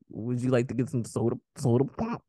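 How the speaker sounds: light mock Minnesota accent; a hint of Minnesota vowels. Friend mocks Minnesota speech, light Minnesota accent. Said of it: "the nasal Minnesota".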